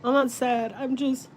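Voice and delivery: really crying, voice pitched high; tearful and halting. Real, not acted. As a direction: struggle to speak through tears, stopping for long pauses. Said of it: "I don't like to cry about it".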